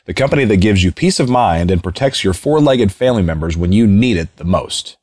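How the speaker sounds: smooth sponsor read, evenly paced. Acted. Host reading the sponsor ad to listeners, polished ad voice. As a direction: sell the pet insurance like a radio spot.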